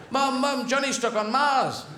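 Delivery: put-on high, calling kid voice; child voice. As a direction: call out like a worried child. Child calls to mum.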